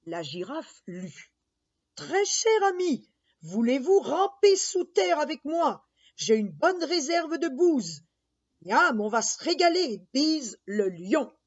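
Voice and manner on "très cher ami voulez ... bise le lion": beetle letter voice. Acted. Giraffe reads dung beetle letter.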